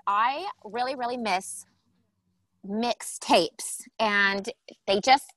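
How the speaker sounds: lightly put-on totally-tubular guest voice; eighties guest character. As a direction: lean hard on key words like an eighties teen.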